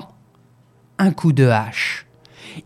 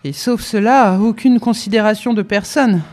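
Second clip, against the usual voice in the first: a higher, indignant servant's complaint; indignant cook; 4 semitones higher than usual. Acted. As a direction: protest like an offended cook. Cook scolds master at night.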